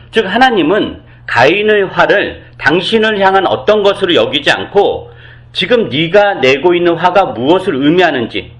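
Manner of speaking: ordinary talk, nothing marked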